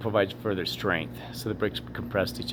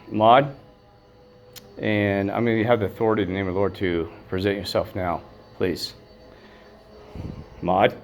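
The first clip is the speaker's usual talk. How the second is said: calling out. Real, not acted. Summoning a ghost by name.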